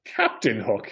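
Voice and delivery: Bond-style introduction. Retold or imitated. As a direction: introduce yourself like James Bond. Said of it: "like Bond".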